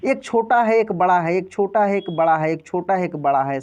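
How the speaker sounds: rhythmic rise and fall; short then long. Shown as a demonstration. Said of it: "same यही चीज़ यहाँ भी".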